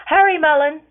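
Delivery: loud, high, urgent call. A narrator's reading. A mother urgently calls her son to hurry, loud. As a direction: call him down fast. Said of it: "Cascara calls out".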